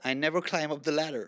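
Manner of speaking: put-on American accent; copied American accent with firm r's; American Valley Girl. Shown as a demonstration. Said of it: "the way the girl would say it".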